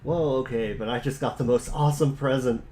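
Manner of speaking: lightly voiced, upbeat boy; eager John. Voicing John in the chat.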